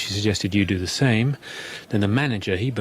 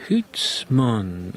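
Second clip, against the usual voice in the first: mock Scottish accent. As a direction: ham up a comic Scottish accent. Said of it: "What's that, a Scottish accent?".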